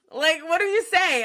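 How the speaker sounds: high, giggly bewilderment; laughing helplessly. Real, not acted. Asking y'all what to answer to a kiss, laughing helplessly. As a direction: plead it high, on the edge of laughter.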